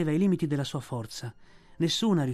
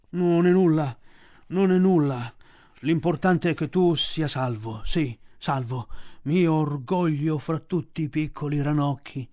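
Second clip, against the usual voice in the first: louder, groaning bear voice; moaning bear; 3 dB louder than usual. A narrator's reading. Balù moans to Mowgli, relieved and sore. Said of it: "gemette Balù".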